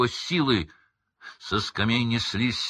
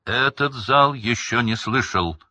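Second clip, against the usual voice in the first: louder, pushing over the interruption; raised voice; 5 semitones higher, 5 dB louder than usual. A narrator's reading. Crouch raising his voice over his son. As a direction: talk over him. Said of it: "Крауч повысил голос".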